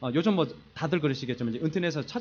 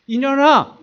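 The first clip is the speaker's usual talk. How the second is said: loud, higher mock yell; mock shouting; 9 semitones higher, 12 dB louder, much slower than usual. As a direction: play the old fight, yelling the name. 싸울 때 아내를 부르던 말. (싸우던 시절 아내에게 지르는 장난스러운 고함)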